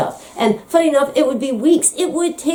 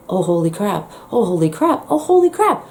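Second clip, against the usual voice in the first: shocked realization. Retold or imitated. Patient realizing in hospital bed she is deaf, building shock. Discovering deafness in one ear.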